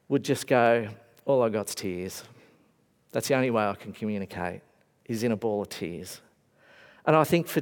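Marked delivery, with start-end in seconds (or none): 1.3-6.2 low, soft tearful voice. Retold or imitated. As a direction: speak as if through tears. Voicing a grieving person.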